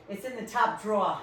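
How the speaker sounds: "drawer" as "draw", Rhode Island style; Rhode Island accent. Retold or imitated. Retelling her request for chocolate, Rhode Island accent. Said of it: "I love the way you say drawer".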